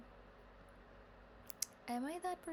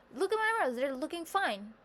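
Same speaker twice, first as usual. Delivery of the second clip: mock chipper; 4 semitones higher, 4 dB louder than usual. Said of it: "And it was like".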